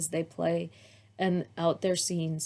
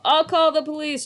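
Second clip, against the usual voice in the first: put-on child voice; 8 semitones higher, 7 dB louder than usual. A narrator's reading.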